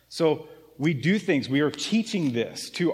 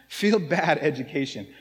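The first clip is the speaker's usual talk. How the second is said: laughing repeat. Real, not acted.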